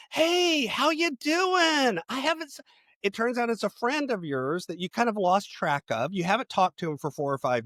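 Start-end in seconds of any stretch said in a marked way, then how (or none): 0.1-2.6 high, friendly call across a restaurant. Pretend. Friend spotting you across the restaurant, calling out high. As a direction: call out in surprise to an old friend. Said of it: "somebody yells out".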